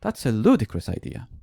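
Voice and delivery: mock exasperated retort, falling at the end; teacher imitating the student's most annoyed take. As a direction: imitate the student at her crossest, still understated. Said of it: "be even more annoyed".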